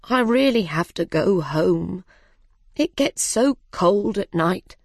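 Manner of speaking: lightly voiced elderly bird; old bird voice. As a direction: make excuses to leave as an old bird. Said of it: "One old bird said".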